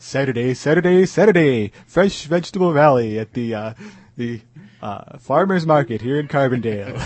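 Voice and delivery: hyped rally announcer chant; Saturday Saturday Saturday, ad style; monster truck ad. Pretend. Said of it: "the monster truck rally ads".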